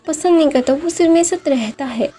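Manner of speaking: a touch of crying in a retold quote; tearful retelling. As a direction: voice him like a boy near tears, not full sobbing. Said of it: "जो रोने लगता है".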